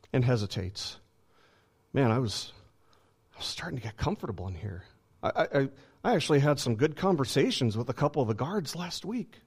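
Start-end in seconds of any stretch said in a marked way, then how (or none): 1.9-9.4 reluctant prisoner. Acted. Acting prisoner reluctant to flee.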